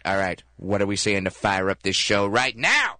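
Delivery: lightly played Jack Black firing up the team; Jack Black impression. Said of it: "my impression of Jack Black".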